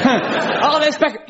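high-pitched pretend recognition; mock excited spotting. Acts out mistaken excited spotting.

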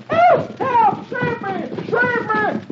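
high-pitched, panicky cry for help; frantic high shouts from a man fleeing; shouting for help. A narrator's reading. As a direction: yell high as if running for your life. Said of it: "runs out of the brush shouting".

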